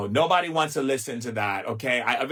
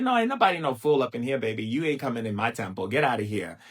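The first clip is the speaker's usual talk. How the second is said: sassy dismissal. Retold or imitated. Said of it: "I said".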